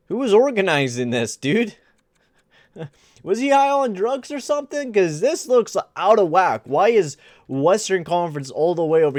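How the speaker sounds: mock the organizers through a laugh; laughing disbelief. Real, not acted. Mocking the game makers.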